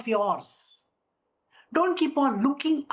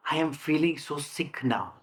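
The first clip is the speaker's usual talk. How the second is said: self-pitying moan; 7 semitones lower, 3 dB quieter than usual. Shown as a demonstration. Acts the sick self-talk again.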